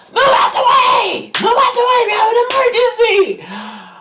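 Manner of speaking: very high, loud shrieked warning; yelling cart driver. Retold or imitated. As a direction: yell to clear a crowd. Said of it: "the lady literally has to yell".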